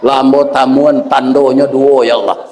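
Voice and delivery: weeping monk. Acted. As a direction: let the awe choke your words. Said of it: "Menangis pendeta Wairah".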